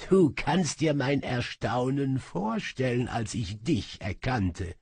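gloating magician, lightly voiced; smug sorcerer. Sorcerer gloats to his servant, smugly. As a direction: savour the captured prize. Kaba taunts Asmira.

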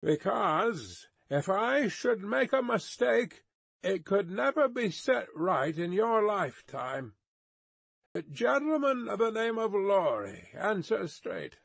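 high, commanding delivery; stern high-pitched order; guard's warning call. A narrator's reading. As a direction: lay down the law from afar. Guard calls orders into mist.

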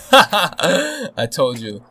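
high, loud, drawn-out gloat; stretched-out, high victory call; triumphant gloat. Real, not acted. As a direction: crow it slowly in triumph. Gloats after his planned ambush.

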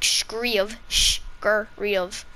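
scríobh repeated slowly as shkreeoo; Irish pronunciation. Shown as a demonstration. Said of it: "what we say it as".

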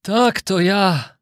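slow, drawn-out fatherly reply; old craftsman. A narrator's reading. Old craftsman found by his son, slow reassurance. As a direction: answer very slowly as the old father. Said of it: "odpowiedział stary majster".

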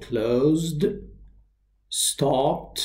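"closed" ending in d, "stopped" ending in t, one syllable each; silent E in ED. Shown as a demonstration. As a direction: say "closed" and "stopped" slowly apart, no extra vowel. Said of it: "E D is not usually pronounced".

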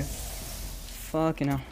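slow, soft drawn-out sigh; exasperated groan. Real, not acted. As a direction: groan it out slowly.

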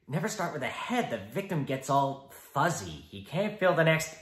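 high, giggling, taunting Joker; laughing Joker. Acted. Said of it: "the Joker".

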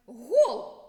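loud triumphant cry; excited shout. Pretend. Teacher cheering the scored goal for pupils, loud yell. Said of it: "Нас почули і забили шайбу".

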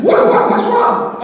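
high, slow, startled what-what; stammering in mock surprise; surprised question. Retelling how he answered the deaf man, startled.

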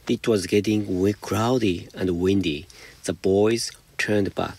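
slow, careful read-aloud of the English sentence; slow example reading. Shown as a demonstration. Teacher reading the example to students, slow and deliberate. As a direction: spell it out slowly for the class.

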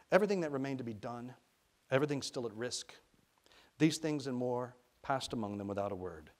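measured, expressive audiobook reading; storyteller's deliberate phrasing; story narration. A narrator's reading. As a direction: read the story aloud with care.

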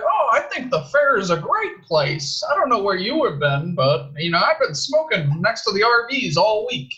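lightly mock a clueless fairgoer; fair dude. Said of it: "Like the one dude from the fair".

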